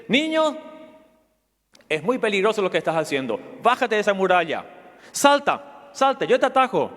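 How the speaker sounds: put-on a stranger calling a child down off the wall. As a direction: call up to the boy on the wall. Man calls out to boy on wall.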